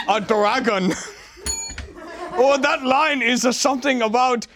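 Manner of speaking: hammed-up caricature Asian accent; mock Asian accent. Comedian improvising a line about a caboose, mock Asian accent. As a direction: put on a crude Asian accent. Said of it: "some sort of racist Asian".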